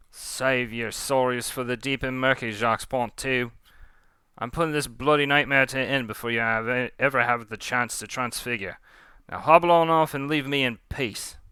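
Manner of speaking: put-on scornful pirate captain with a Cockney accent. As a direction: loose Cockney accent, dismissing a foe. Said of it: "I'm trying to do Cockney accent".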